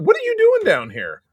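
high, sing-song pet voice; talking to a dog. Real, not acted. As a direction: coo at the dog that got in.

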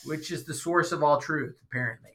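dry, understated sarcasm; sarcastic. Real, not acted. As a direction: say it as if you don't believe a word. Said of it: "I'm saying that in a".

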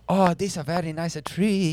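hammed-up bonsai-seller East Asian accent; mock East Asian accent. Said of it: "I get a bonsai tree".

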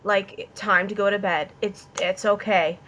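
softly soothing, voice kept low; lightly voiced reassuring father; calming dad. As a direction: imitate a dad settling a child for bed. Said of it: "John was talking to me like".

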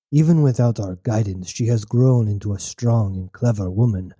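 wounded father. Acted. Nebu speaks, wounded.

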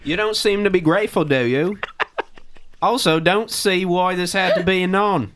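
mock British accent. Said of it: "we should read this all in a British accent".

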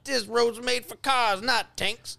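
high, hollering southern country voice; country accent. Retold or imitated. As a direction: holler it like a hammed-up country man. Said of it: "Chinese man with a country accent".

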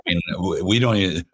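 a hammed-up Swedish accent, as a Norwegian band would talk; mock Swedish accent, playful and clumsy; bad Swedish accent. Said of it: "That's my bad Swedish accent".

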